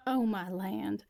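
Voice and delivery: slow, drawn-out gasp of surprise; stunned gasp. Acted. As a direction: catch your breath in shock. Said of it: "Clover gasps".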